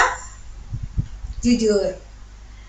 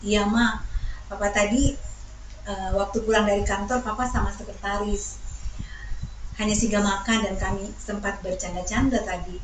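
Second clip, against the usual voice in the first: confessing husband; 2 semitones lower, 4 dB quieter than usual. Acted. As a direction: own up softly and hesitantly. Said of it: "suamimu akhirnya bilang".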